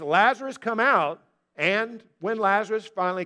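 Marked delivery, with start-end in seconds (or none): 0.0-1.2 raised-voice summons; calling out. Retold or imitated. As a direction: quote the call with some force. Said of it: "when Jesus says".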